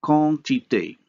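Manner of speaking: QUANTITÉ in French, first vowel nasal with no separate N; nasalized vowel. Shown as a demonstration. Lecturer showing examples of French vowel nasalization, nasalized vowel. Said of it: "a nasalized vowel".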